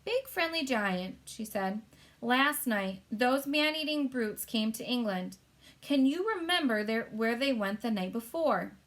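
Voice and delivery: high, slow queen voice; the Queen, grave. Acted. Queen questioning the giant about the brutes, grave. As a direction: ask it with royal gravity.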